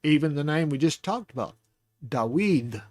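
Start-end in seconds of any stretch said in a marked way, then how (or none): 2.0-2.8 Dawid as dah-WEED, weight on the second syllable; stress on final syllable. Shown as a demonstration. Teacher showing where emphasis falls, Dawid stressed on the last syllable. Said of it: "is on weed".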